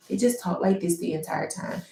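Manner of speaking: flat and quiet monotone; monotone, no rise or fall. Shown as a demonstration. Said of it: "they're just monotone".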